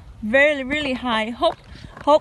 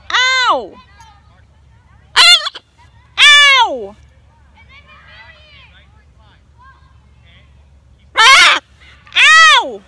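loud high ows, one after another; pained ow; 11 semitones higher, 11 dB louder, much slower than usual. Real, not acted. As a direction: yelp at each nip. Bird biting her.

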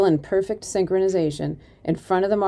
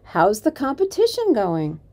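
desperate bravado; 5 semitones higher than usual. Acted. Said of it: "in a desperate display of bravado".

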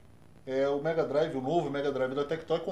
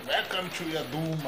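imitating ugly game voice; slower than usual. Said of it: "A do Mega era um pouquinho diferente".

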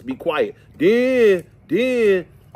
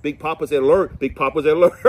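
perked up; 6 dB louder than usual. Retold or imitated. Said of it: "I bet".

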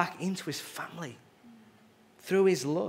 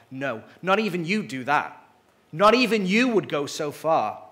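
protesting Satan; 6 dB louder than usual. Acted.

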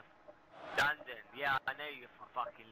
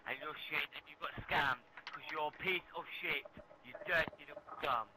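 irritated, insistent accusation; getting mad. Real, not acted. Gamer accusing the other player of lying, getting mad. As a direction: accuse him with rising irritation. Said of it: "Why are you getting mad".

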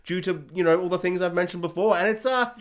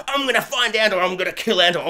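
mock tough guy; 2 semitones higher, 4 dB louder than usual. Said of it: "he's all like".

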